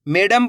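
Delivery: "मैडम" said as "मेडम", first vowel pure e; wrong e pronunciation. Shown as a demonstration. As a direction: say "मैडम" as may-dam. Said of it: "ए की मात्रा का उच्चारण हो जाएगा". ("मैडम" में ऐ की जगह ए)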